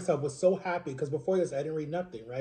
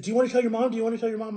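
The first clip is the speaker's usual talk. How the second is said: higher-pitched, excited question; imitating a friend's eager prompting; eager urging; 5 semitones higher, much faster than usual. Happy friend urging him on, retold.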